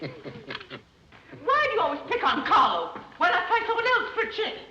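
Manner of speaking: giggling through a mild scold; laughing protest. Acted. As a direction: laugh while you chide. Mother laughing while scolding.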